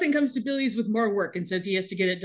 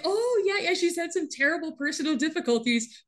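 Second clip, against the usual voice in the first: high-pitched fake sympathy; mock sympathetic; 7 semitones higher than usual. Amanda telling a client about Allison's troubles, mock sympathetic. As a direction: put on a high, concerned phone voice.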